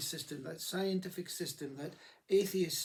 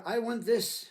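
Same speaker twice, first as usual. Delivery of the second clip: firm mock demand, a touch louder; 5 semitones higher, 6 dB louder, slower than usual. The grasping self demanding change, louder firm demand. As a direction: insist on it as if demanding your rights. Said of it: "wanted to demand".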